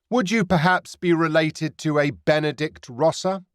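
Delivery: pirate captain probes Sam about his brother; knowing pirate captain. Acted. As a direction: ask it as if you already know. Pirate asks, no question.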